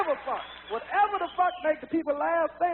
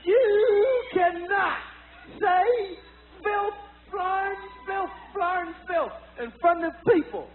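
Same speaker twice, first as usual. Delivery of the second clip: scolding; 2 semitones higher, much slower than usual. Retold or imitated. Bill Cosby scolding the speaker.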